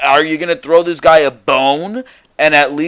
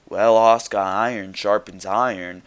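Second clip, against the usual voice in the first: low, soft robotic monotone; mock a stiff, formal promo delivery; monotone Charlotte imitation; 6 semitones lower, 6 dB quieter than usual. Host imitating Charlotte's promo, low robotic monotone. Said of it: "in a monotone tone".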